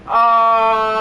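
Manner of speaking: loud, held, level "uh"; long loud uh. Real, not acted. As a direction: hold a loud hesitation noise. Hesitating at the game.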